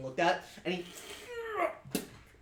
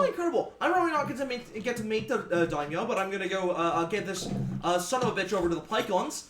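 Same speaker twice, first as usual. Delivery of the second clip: put-on much higher, bright sailor accent; cheerful sea captain; 4 semitones higher than usual. Captain cheering about the shark gift, higher sailor accent. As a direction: answer with hearty sailor cheer.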